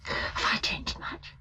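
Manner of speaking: slow, hushed and unsure; timid whisper. Acted. Nina asking Treplev, slow timid whisper. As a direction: ask it almost afraid of the answer.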